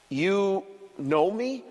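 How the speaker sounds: lightly voiced, slow, wondering goat; a hint of a small, surprised goat; timid goat. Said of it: "the goat asked".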